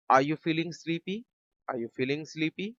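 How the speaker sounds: slow, rising classroom question; careful teacher dictation; slow model question. Shown as a demonstration. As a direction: stretch it out for learners. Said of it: "teacher models English sentence".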